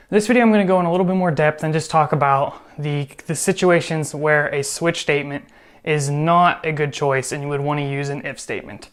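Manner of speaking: breathless, a little rushed; out of breath. Real, not acted. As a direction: talk while catching your breath. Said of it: "I'm out of breath".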